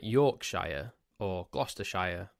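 Yorkshire and Gloucestershire ending in a full "shyer"; American pronunciation. Shown as a demonstration. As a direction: stretch each Yorkshire, Gloucestershire ending to SHY-er. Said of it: "what you tend to do in America".

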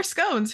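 scones with a long o, rhyming with stones; American scones. Real, not acted. Guest answering host's offer, scones with long American o. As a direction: say scones as "skohnz". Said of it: "Who knows what it'll be that day".

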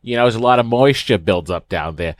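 a hint of a quirky aunt; eccentric aunt voice. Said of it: "that wasn't my doctor voice ... eccentric aunt".

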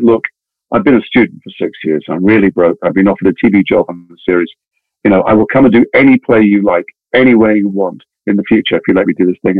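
low-pitched, sincere appeal; earnest plea. Retold or imitated. Broke young actor begging theatre director's release, low earnest plea.

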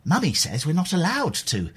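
lightly mimicking a prim well-spoken child; a hint of a posh little kid, slightly sped up. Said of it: "they all spoke like this".

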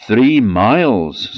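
put-on boy shouting from the sack; called from the sack. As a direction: call out from inside the sack. Boy answers from inside sack.

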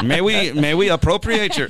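high, loud mock German visitor; badly faked German accent drifting toward French; muddled German accent. Host plays Germans coming over, muddled German accent. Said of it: "like the Germans come over like".

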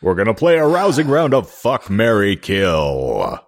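booming drawn-out announcer; fighting game announcer. Pretend. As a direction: stretch out Marry, Kill like a fight intro. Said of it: "can you put the announcer voice on again".

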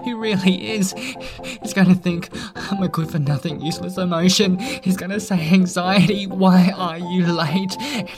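worried rambling voice; fretting nervously about being late; anxious, panicky. Acted. Anxiety character, panicked rambling.

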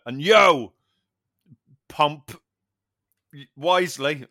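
slow, drawn-out sign-off catchphrase; cheesy tagline voice. Pretend. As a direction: deliver it like a cheesy slogan. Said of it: "Oh God, that sounds horrible".

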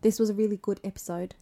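easygoing Australian accent. Shown as a demonstration. Praising the episode as a demo, Australian accent. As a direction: sign off like an Australian host. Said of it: "Should I do my Australian accent".

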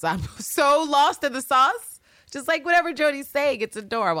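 laughing admission. Real, not acted. Laughing at herself.

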